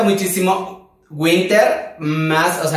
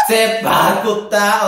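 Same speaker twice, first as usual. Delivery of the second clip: sassy tone; 4 semitones higher, much slower than usual. Shown as a demonstration. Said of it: "siempre y cuando lo haga con el tono".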